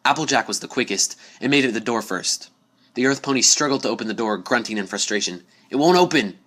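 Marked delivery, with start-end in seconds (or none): 5.7-6.4 higher and louder call. A narrator's reading. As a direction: call it across the dark room. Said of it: "she called out".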